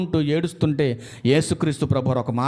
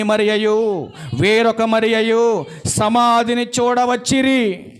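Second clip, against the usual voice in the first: slow, drawn-out Bible reading; scripture reading; 3 semitones higher, slower than usual. Acted. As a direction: proclaim the verse, stretching the word endings. (లేఖన పఠనం, నెమ్మదిగా సాగదీస్తూ)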